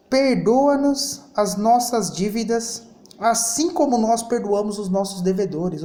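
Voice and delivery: "Perdoa-nos" drawn out slow and emphatic, each word weighed; slow, deliberate prayer recital; slow pointed recital. Shown as a demonstration. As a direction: recite the prayer slowly so the irony lands. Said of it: "com a sua própria boca você fala assim, ó".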